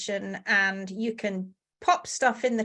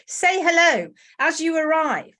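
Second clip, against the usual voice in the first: ordinary talk, nothing marked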